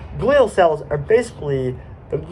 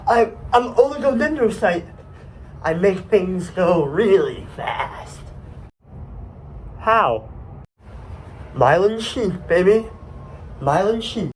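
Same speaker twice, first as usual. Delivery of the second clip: higher voice with drawn-out boasts; oligodendrocyte showing off speed; 5 semitones higher, slower than usual. Acted. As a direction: brag in a put-on character voice. Plays the oligodendrocyte.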